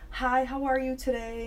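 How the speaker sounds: high, polite phone-greeting voice; customer service voice. Shown as a demonstration. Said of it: "use my customer service voice".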